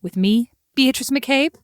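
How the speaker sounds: bright TV host intro; presenter voice. Acted. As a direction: open the show like a presenter. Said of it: "amazing presenter voice I just have".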